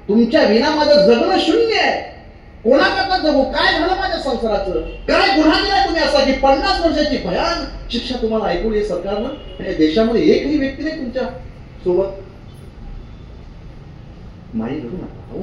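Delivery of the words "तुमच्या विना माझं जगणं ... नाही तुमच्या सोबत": wife's lament. Retold or imitated. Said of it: "माई म्हणतात".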